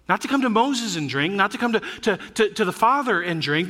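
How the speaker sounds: "Moses" and "Father" lifted as the rejected options; contrastive stress. Shown as a demonstration. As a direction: lean on "Moses", then "Father", as what it is not.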